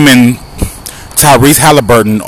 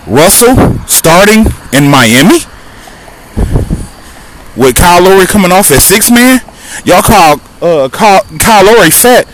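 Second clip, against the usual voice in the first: Southern twang; 7 semitones higher than usual. Real, not acted. Podcaster arguing Russell over Lowry, Southern accent slipping out. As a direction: let the Southern come out as you argue. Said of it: "the Southern is coming out of me".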